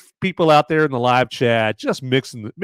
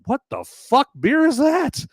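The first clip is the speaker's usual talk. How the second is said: imitating a passerby; 14 semitones higher than usual. Imagined passersby on the beach.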